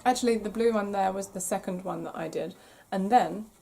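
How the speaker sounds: hoarse and croaky. Real, not acted. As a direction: talk through a rough throat. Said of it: "oh my God, the croaky voice".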